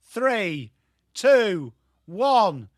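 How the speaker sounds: countdown rising step by step in pitch; spannungsvoller Countdown. Real, not acted. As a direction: count down with building force to kickoff. Countdown to kickoff, building.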